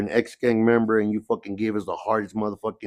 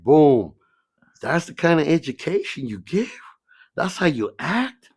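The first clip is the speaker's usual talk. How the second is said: high, sharp mock scolding; scolding mother; 7 semitones higher, 3 dB louder than usual. Mother chewing out the principal, high scolding. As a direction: lecture him like an offended mother. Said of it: "She's like".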